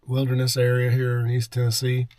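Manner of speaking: talking around a cough drop; words round a lozenge; cough drop in mouth. Real, not acted. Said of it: "Sorry, I got a cough drop in my mouth".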